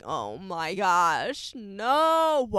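drawn-out, dismayed gasp of dread; mock horror at the screen; understated fearful no; scared. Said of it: "I was so scared".

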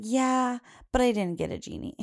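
retold upbeat yeah dropping into mild disappointment; disappointed child. Mom imitates daughter telling people about Christmas, mildly disappointed. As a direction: imitate a child's cheerful yes, then a small letdown. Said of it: "was she disappointed about that genie".

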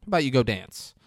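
coaxing, pushy guy; mock pushy invitation; urging. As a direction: egg the girls onto the floor. Guy urging girls to dance.

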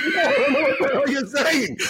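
very high-pitched, comically baffled retort; mock exasperation. Retelling his answer to the Scottish priest, exasperated. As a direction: act out being totally lost.

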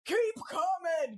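high drawn-out call; directing call. Retold or imitated. Dad directing his wife's reversing car, drawn-out call. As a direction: wave her back with your voice.

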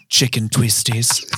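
slow, drawn-out mock ASMR; playful ASMR product tease. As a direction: linger on each word like an ASMR clip. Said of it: "A S M R".

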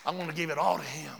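quick, low statement. Real, not acted. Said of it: "repeated as whisper".

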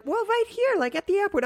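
clueless cheery. Retold or imitated. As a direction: play her as blissfully unaware. Mimicking girlfriend's clueless answer.

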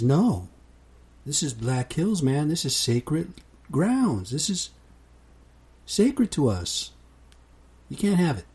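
defiant Indian elder. Retold or imitated. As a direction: stand your ground, sacred land. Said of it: "The Indian says".

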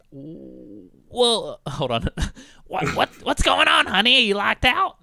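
put-on high, loud motherly older woman; Joan's voice. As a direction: coo at the caller like a worried older lady. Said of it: "And she was like".

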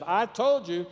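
mock fury on answering; angry outburst. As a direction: cut the caller off in exasperation. Enraged person answers again.

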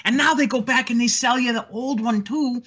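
loud, high-pitched cartoon character voice; Phil. Explaining why studios remake old movies, as Phil. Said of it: "Yeah, he's Phil".

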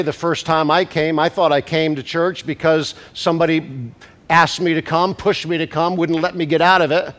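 usual speaking voice

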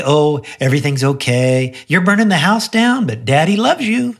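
lightly mock a dad who only soothes; soft indulgent daddy. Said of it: "So I don't just say".

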